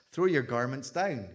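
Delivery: a proud donkey ordering the crowd, crossly. Acted. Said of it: "he said crossly".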